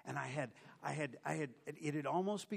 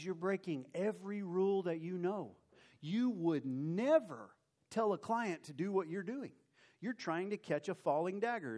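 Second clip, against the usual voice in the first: stern scolding; 6 semitones higher, 4 dB louder than usual. Retold or imitated. Boss scolding a broker who breaks every rule, stern. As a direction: drive each rule home.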